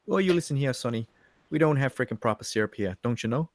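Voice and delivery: put-on a loose, vaguely Jamaican character accent; put-on accent, slightly Jamaican. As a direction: put on a wobbly, half-Jamaican lilt. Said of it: "Sounds a little bit Jamaican".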